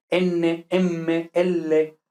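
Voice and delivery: N, M, L each with a long held consonant. Shown as a demonstration. Teacher demonstrates double consonants, N M L held. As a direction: linger inside N, M, L as en-ne, em-me, el-le. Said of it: "pronunciar estas consonantes dobles".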